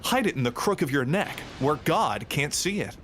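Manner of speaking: lightly put-on narrator, high-arching emphasis; mock presenter voice. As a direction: recite it like a silly educational spot. Reciting odd joke video lines.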